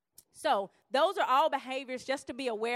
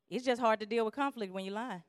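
laughing. Real, not acted. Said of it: "repeated for emphasis".

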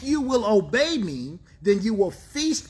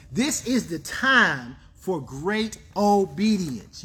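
"great obedience" drawn out word by word; slow right down, spacing out "This is the time for great obedience"; slow emphasis; slower than usual. Real, not acted. Preacher driving home the key line, slow and emphatic.

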